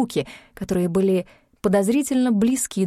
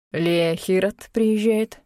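startled; much slower than usual. Acted. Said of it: "Мор встрепенулся".

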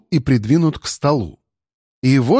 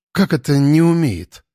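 offended; 2 semitones higher than usual. Acted. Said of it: "оскорбилась за сына Вася".

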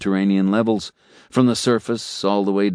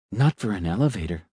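complacent. Acted. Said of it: "the elevator said complacently".

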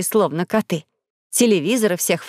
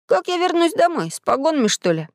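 worried; 7 semitones higher than usual. Acted. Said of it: "он забеспокоился".

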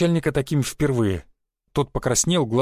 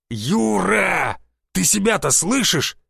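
exclaiming; 5 semitones higher, much slower than usual. A narrator's reading. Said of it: "воскликнул глава тайной полиции".

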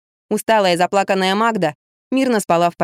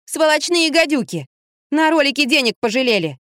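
indignant outburst; 7 semitones higher than usual. Acted. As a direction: charge into the fight on her behalf. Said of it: "ринулась в бой Лизавета".

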